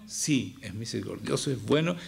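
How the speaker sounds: calm admission before a rebuttal; conceding. Acted. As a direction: grant the point, voice dropping. Concedes the objection he voiced.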